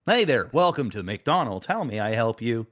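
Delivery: cheery drive-through greeting; robot cashier voice. Pretend. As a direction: greet like a fast food robot. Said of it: "you're gonna be talking to a robot".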